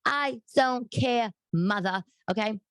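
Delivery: drawn-out pointed defiance; defiant. Real, not acted. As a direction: lay each word down for mother. Defying mother.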